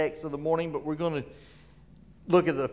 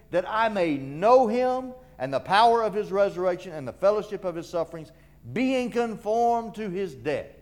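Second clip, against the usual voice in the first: emphatic scripture preaching; 5 semitones higher, 3 dB louder than usual. Acted. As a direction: proclaim each phrase with weight. Preaches Paul's words with force.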